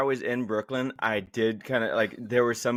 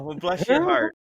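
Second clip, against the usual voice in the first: higher, mock-sympathetic put-down; Virginia polite; 6 semitones higher, 3 dB louder than usual. Shown as a demonstration. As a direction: demonstrate a sugary polite insult. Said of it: "Say, Well, oh".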